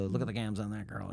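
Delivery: put-on lightly sketched old-time gangster; a hint of cartoon wise-guy patter; 1920s radio voice. Actor telling the director what to avoid, light 1920s voice. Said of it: "maybe we don't do an accent".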